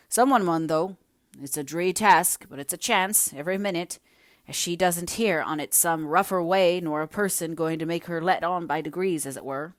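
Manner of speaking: a hint of a blunt villager; lightly voiced workman. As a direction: insist someone must take it on. Man argues someone must go.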